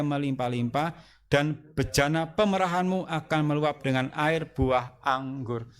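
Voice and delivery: slow, measured verse recitation; deliberate, drawn-out Bible reading; scripture reading. Acted. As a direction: read the verse out slowly for all to follow. Reads verse aloud after a count.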